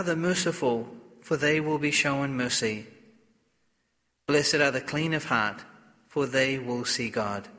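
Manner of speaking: solemn liturgical reading voice; Gospel reading. Acted.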